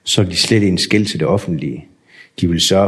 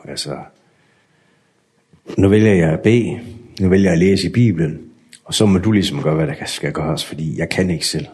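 praying. Retold or imitated. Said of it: "og så beder jeg til Gud".

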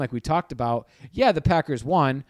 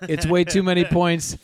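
louder, higher, bursting out after the whisper; 5 semitones higher, 5 dB louder than usual. Real, not acted. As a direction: break the whisper and say it out loud. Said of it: "I'm gonna get close to the mic and whisper".

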